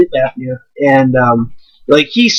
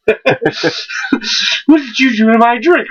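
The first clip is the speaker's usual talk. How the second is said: very slow, dazed drugged question; slurred and slow, fading out; woozy victim; 7 semitones higher, much slower than usual. Acted. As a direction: play someone going under from a spiked drink.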